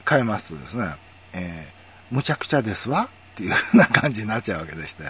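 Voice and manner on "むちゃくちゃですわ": brisk standard Tokyo intonation, ladylike light wa; standard-Japanese feminine speech. Shown as a demonstration. Converting Kansai into women's standard speech, ladylike standard accent. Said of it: "これを標準語の、".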